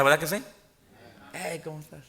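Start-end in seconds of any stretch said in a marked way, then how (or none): 1.3-2.1 soft, smiling hello from the late pastor, much quieter; friendly smiling greeting. Retold or imitated. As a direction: greet them gently with a smile. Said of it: "lo primero que traía era una sonrisa".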